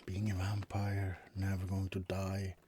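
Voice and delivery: hushed confiding whisper. Acted. Vampire confiding to roommate in a whisper. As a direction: let it slip in a whisper.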